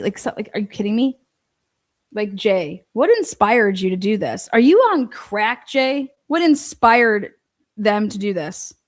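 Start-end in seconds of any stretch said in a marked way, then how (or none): 2.3-8.7 incredulous mock interview. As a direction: ridicule a clueless interviewer, rising in disbelief. Mocking the reporter asking Jay.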